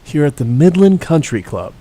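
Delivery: hushed golf broadcast voice; lightly voiced TV golf announcer; Jim Nantz. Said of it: "How long should I do the golf voice for?".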